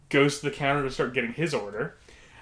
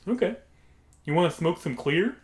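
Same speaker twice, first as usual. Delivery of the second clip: lightly put-on voice, pitched up; odd customer impression; 4 semitones higher than usual. Odd stranger offering drugs to the friend, lightly imitated. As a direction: imitate the man making his offer. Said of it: "It's how he sounded".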